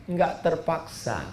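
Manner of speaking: usual speaking voice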